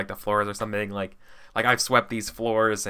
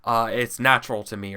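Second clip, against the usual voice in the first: fast eager pitch. Acted. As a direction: rush it out eagerly. In-character plan pitch.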